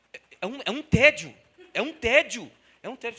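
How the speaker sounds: "tédio" dito alto e arrastado; tédio enfático. Acted. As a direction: martela "tédio" com desdém. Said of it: "fica assim". ("tédio" alto e enfadado)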